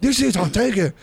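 high-pitched imitated Asian accent; mock accent of the Asian lady. Asian lady yelling at them over seats, mock high accent. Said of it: "in her accent".

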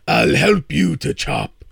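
loud, eager cowed troll; pleading troll. Acted. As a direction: offer help like a frightened troll. Troll offers help, cowed.

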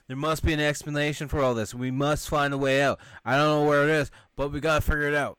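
rally the group loudly; determined. Retold or imitated. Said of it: "one of the guys like".

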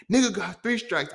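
high-pitched, distraught movie-character wail; Melvin from Baby Boy. Acted. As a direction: do a comic impression of an aggrieved man. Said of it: "dude on Baby Boy, Melvin".

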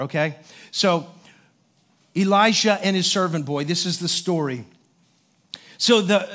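calm, measured preaching voice; a pastor setting up the morning's text; sermon opening. Acted. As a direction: lay out the Bible story for the congregation.

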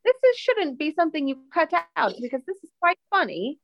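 high, quick mock English accent; put-on English accent. Co-host urging host not to cut it, in mock English accent. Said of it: "having different accents".

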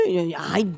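thin mock sobbing wail; imitated wailing. Medium recalls the ghost's nonstop crying, mock wailing. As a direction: mimic someone crying on and on. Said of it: "era un llanto y llanto".

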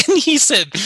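a loud laugh breaking into the narration. Real, not acted. Teller cracking up before the preacher's reply, laughing. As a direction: laugh through the words. Laughing while retelling the punchline.

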